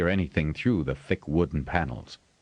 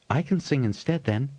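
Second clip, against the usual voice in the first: put-on eager high boyish chirp; keen boy offering to sing; piping up; 9 semitones higher than usual. A narrator's reading. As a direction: pipe it up brightly, higher. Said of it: "Robinson piped up".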